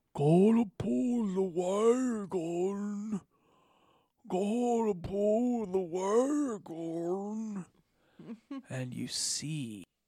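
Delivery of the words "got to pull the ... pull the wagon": very slow, loud, guttural ogre creature drone. Game master voicing a chained ogre-type creature: guttural but loud murmur. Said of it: "a guttural but loud voice murmuring".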